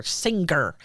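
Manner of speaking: SINGER with a hard G, as sing-ger. Retold or imitated. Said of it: "you got the hard G people".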